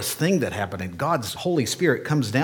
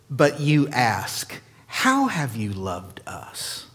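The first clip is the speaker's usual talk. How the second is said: sarcastic; slower than usual. Acted. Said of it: "a bit of a sarcastic tone".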